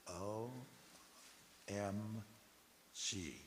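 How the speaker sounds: each letter and word on its own; drawn-out exclamation. Acted. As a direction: leave long pauses for comic awe. Spelling out flavor as exclamation.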